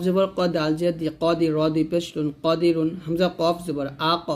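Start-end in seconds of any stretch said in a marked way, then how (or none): 3.0-4.3 "আ ক" with the final q bounced; qalqala. Shown as a demonstration. Teacher showing learners qalqala on qaf, echoing stop. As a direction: release the q in "আ ক" with a short echo. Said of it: "কলকলা হবে".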